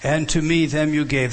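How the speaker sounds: "them" leaned on, a touch firmer; stress on THEM. Shown as a demonstration. Preacher repeating the verse to show its word order, stressing "them". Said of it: "the emphasis is on them".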